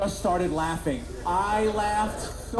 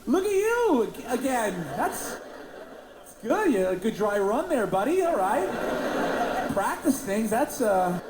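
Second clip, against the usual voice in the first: high, sing-song fake niceness; overly nice, pitched up, to the scared delivery guy; mock-friendly; 5 semitones higher than usual. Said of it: "I was just gonna be nice".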